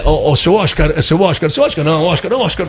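a light imitation of a European Portuguese accent. Portuguese crew correcting how to address Oscar, in a light Portuguese accent. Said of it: "eles assim, falando assim".

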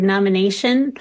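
NOMINATION with a Southern gliding "a" in the third syllable; Southern-accented "nomination"; Southern vowel. Shown as a demonstration. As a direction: say "nomination" with the stressed "a" drawled Southern-style. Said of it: "particularly Southern vowel pronunciation".

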